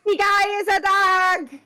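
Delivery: slow, disbelieving exclaim; incredulous. Real, not acted. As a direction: stretch it out in disbelief. Incredulous outburst.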